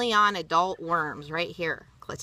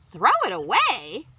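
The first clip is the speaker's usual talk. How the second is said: horrified echo; 5 semitones higher, 4 dB louder than usual. Acted. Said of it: "Grandma look horrified".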